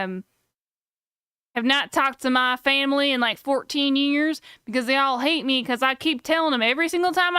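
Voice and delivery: lightly put-on Texas accent, a clueless redneck ranting; Texas accent character. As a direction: play a gun-loving Texan who can't see his own faults. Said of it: "You can tell it by the accent".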